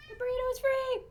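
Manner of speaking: playful triumphant cry. Real, not acted. Owner releasing the burrito cat, triumphant cry. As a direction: announce the release with a high cheer.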